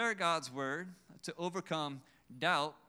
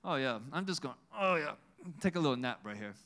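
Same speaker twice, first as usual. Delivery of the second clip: a hint of easygoing contentment, imitated; mock-relaxed, murmuring to himself lightly; lightly voiced relaxed napper; faster than usual. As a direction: play someone casually settling down for a nap. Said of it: "he's taking a nap. He's like".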